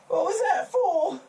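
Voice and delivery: high, loud startled yelp; shocked yelp. Acted. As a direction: yelp from a sudden smack. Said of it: "He goes".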